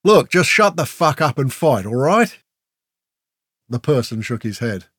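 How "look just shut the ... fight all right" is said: loud, raised impatient demand; fed up. A narrator's reading. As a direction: demand the fight, out of patience. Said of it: "Grell had had enough talk".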